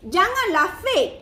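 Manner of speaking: "fake" stretched out on a high fall; slow down and lean on "fake"; emphatic warning. Real, not acted. Coach warns followers about filming, "fake" drawn out emphatically.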